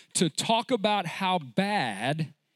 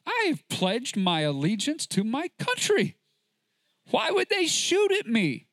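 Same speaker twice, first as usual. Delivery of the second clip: mock whiny soldier; 3 semitones higher than usual. Preacher mocking a complaining soldier, whiny. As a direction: play a soldier complaining that he's being shot at. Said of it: "can you imagine a soldier saying".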